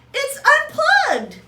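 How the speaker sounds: high, loud, slow astonished cry; surprised shout. Acted. Husband finds the unplugged TV, loud astonished cry. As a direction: blurt it out in disbelief.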